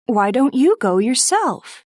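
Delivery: put-on high, gentle young girl's voice; Beth's voice. Narrator voices Beth.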